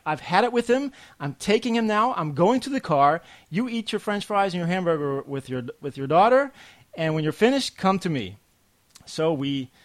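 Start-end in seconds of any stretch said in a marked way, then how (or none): 0.0-8.4 higher, louder exasperated outburst; she's done, taking the kid out; fed-up wife. Retold or imitated. Wife snapping at husband over crying son, loud exasperated. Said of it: "And she's like".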